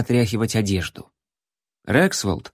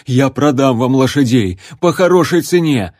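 louder, frantic pleading; desperate bargaining cry; 3 semitones higher, 6 dB louder than usual. A narrator's reading. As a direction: blurt out the offer in panic. Hermit bargaining in panic.

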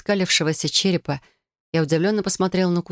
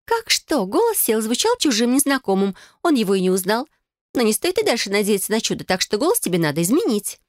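put-on bright, higher girlish cousin voice, eager; Felicia's voice; 6 semitones higher than usual. Cousin proposing a blood oath to Adel, eager and higher. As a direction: play the scheming cousin, higher.

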